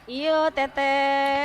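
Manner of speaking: drawn-out Minang reply; Minang accent. Real, not acted. Host greets a caller back, Minang accent. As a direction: answer slowly with a Minang lilt. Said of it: "yang jadi bahasa Minangnya ya malah Pok Nova".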